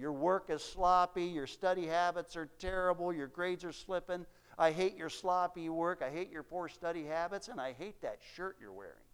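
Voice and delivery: put-on harsh, angry, berating scolding tone. Telling a story, acting out a professor at a student, retelling a professor's yell. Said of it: "he's just yelling in his face".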